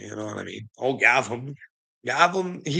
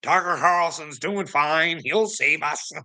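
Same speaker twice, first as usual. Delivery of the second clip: slow, higher naive mock voice; mocking believer; 6 semitones higher, slower than usual. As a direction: mimic a gullible follower. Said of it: "I'm not saying Tucker Carlson's bad".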